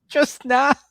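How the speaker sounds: high laughing question; giggling disbelief at a flat no. Real, not acted. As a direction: laugh through the words, disbelieving. Teasing repeat of a flat no.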